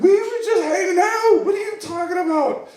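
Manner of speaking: high, loud, half-crying yell; mock panicked protest. He protests to the gangsters who disown him, panicked. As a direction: plead your innocence in a hammed-up panic.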